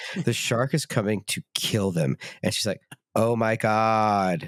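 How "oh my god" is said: mock deadpan flat monotone, "god" drawn out. Mimicking her line as the shark comes to kill them, imitating a flat line delivery. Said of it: "it's the most flat I've ever heard a line delivered".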